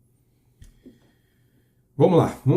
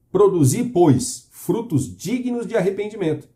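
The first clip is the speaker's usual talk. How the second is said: proclaimed command; 6 semitones higher, 3 dB louder, slower than usual. Acted. Preacher proclaims John's command.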